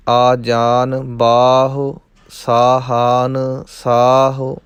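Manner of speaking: slow, measured verse recitation with drawn-out endings; scripture recitation. Shown as a demonstration. Teacher models Gurbani verse for learners, slow measured recitation. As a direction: recite line by line, holding the long vowels.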